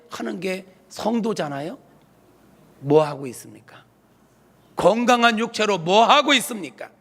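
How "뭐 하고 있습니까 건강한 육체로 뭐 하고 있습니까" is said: rising to a loud, high-pitched rebuke; forceful pulpit questioning; preacher's challenge. Real, not acted. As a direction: challenge the congregation, building in force on the repeat.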